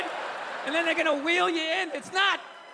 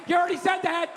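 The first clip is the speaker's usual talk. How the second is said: mock heckle; 3 dB louder than usual. Mock heckling the old man.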